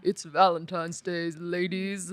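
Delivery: slow sultry narrator, lightly voiced; velvety seductive murmur. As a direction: play the smooth romantic narrator. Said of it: "sexy, sexy voice".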